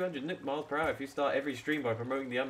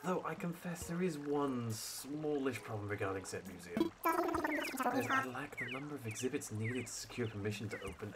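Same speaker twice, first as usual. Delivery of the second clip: a lightly voiced stuffy professor owl; hint of a posh museum curator; sophisticated tone. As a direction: read it like a pompous scholar, barely shifted. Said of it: "a bit of a more sophisticated tone".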